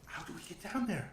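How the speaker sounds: high-pitched character voice; Irina. Acted. Irina asks the party about the space below, high-voiced. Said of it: "So Irina says".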